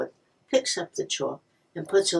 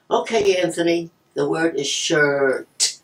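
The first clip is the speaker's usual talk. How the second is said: teacher dictating; 5 dB louder, slower than usual. Retold or imitated. Teacher repeats the spelling word.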